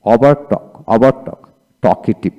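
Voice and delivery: চকি drawn out slowly, syllable by syllable; slow demo. Shown as a demonstration. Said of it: "তারপরে". (ধীরে ধীরে চকি)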